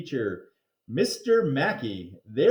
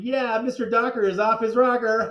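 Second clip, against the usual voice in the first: gleeful rhyme; 7 semitones higher, 5 dB louder than usual. Acted. Kids chanting teasing rhyme.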